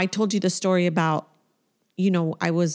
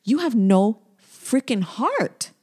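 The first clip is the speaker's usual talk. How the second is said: indignant reproach; 3 semitones higher than usual. Retold or imitated. Girlfriend addressing the partner who failed her, indignant reproach. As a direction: confront an absent partner, word by word at first. Addresses absent ex about missing comfort.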